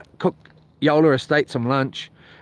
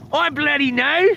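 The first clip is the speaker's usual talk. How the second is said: neighbour's voice; 11 semitones higher than usual. Retold or imitated. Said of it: "he was kinda talking like I do".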